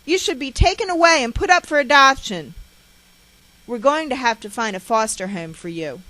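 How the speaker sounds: loud, high ranting mother; sustained furious scolding; harsh tirade. A narrator's reading. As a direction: berate and threaten the child at a shout. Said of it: "She continues her harsh tirade".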